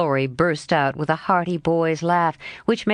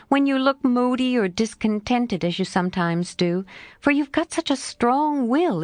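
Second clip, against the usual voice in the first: lightly voiced lively girl, a bit higher; a hint of a frank young girl, pitched up; Jo's voice; 3 semitones higher than usual. Jo answering her friend Laurie, lightly voiced girl.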